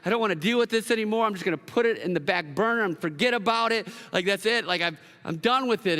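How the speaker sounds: fed up. Acted. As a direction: act out someone wanting to be done with it. Voicing someone fed up with forgiving.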